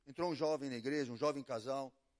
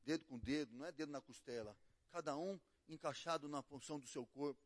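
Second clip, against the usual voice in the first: gentle counsel; 3 semitones lower, 7 dB quieter than usual. Retold or imitated. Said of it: "eu falei pra ele".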